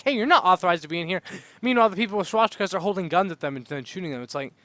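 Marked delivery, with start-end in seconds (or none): 0.0-1.2 casual guard. Retold or imitated. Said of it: "They're just like".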